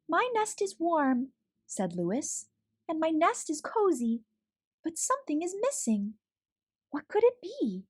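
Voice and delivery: high, nervous, wondering aloud in the night; a small worried creature calling out; timid little Louis voice. Acted. Louis the character speaks.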